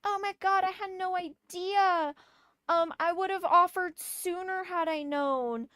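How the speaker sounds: high, sugary mock-sweet voice; mocking a neighbour's passive-aggressive apology in a saccharine high voice. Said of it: "very passive-aggressively like".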